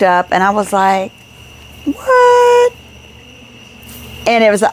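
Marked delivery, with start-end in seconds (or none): 1.8-2.7 high, drawn-out amazed "what". Retold or imitated. Wife retelling her reaction at the auction, amazed. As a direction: let it shoot up in delighted disbelief.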